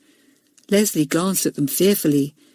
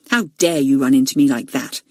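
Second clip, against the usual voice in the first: lower, a touch of a demanding bully; 5 semitones lower than usual. Acted. Robert to Leslie, understated demand. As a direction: lean on him, mildly menacing. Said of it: "he demanded".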